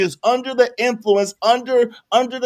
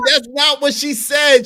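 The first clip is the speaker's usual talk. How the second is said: raised shout; 4 semitones higher, slower than usual. Real, not acted. Shouting correction.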